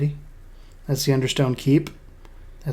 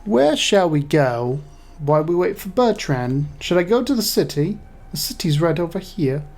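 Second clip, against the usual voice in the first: slipping into a light British accent; a hint of British accent; 2 semitones higher than usual. Real, not acted. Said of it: "I don't know why I went all British".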